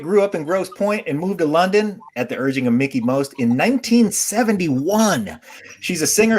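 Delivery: announcer-style guest intro, lifted at phrase starts; show host introduction. Acted. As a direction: present the guest of honor to the audience.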